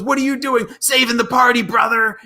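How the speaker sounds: high-pitched retold exclamation; mock protest. Man challenged over his dancing, high mock protest. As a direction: call it out in mock disbelief.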